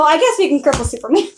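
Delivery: normal talking voice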